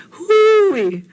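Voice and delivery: high, loud hooey called from afar; calling hooey. Retold or imitated. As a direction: call hooey out to the house from outside. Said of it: "very first, um, thing she said was".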